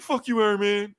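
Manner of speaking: high, jeering shout at the hero; rescued bystanders yelling at Iron Man, mock jeer; mock angry yell. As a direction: throw it up at him like a heckling crowd.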